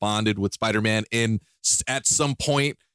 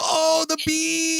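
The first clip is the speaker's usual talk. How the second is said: high, slow hammed-up Nicolas Cage shout; Nicolas Cage impression; much slower than usual. Friend mimics Nicolas Cage's famous bee scene, hammed-up shout. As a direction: yell it like Cage losing it over the bees. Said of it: "he's gonna go".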